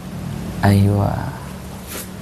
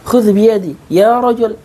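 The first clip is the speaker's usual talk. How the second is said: pleading call; 6 semitones higher than usual. Shown as a demonstration. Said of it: "ya kan".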